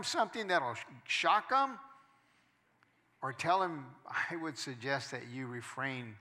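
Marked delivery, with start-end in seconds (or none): 4.0-6.2 softer, prim and proper request; overly polite. Shown as a demonstration. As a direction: say it with mock refinement. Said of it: "Does that sound better?".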